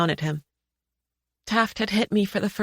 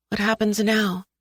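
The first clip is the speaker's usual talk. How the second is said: shaky voice; 3 semitones higher than usual. Acted. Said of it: "my voice shaking".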